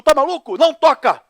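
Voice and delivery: grito agudo e forte; alarmed shout. Retold or imitated. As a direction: berrar de susto. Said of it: "Ela, que susto". (grito assustado para não tocar)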